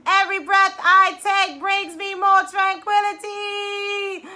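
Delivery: triumphant loud mantra; proclaimed affirmation. Shown as a demonstration. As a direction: shout it out with conviction. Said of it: "for this last one, biggest breath".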